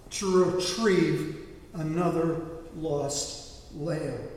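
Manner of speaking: slow, emphatic divine answer; lightly voiced God, firm and deliberate; voice of the Lord. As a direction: pronounce it as God, with weighty pauses. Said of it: "the Lord answered".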